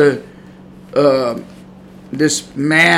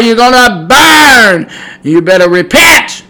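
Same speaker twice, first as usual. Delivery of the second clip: stern warning; 4 semitones higher, 4 dB louder, slower than usual. Acted. Preacher warning sinners.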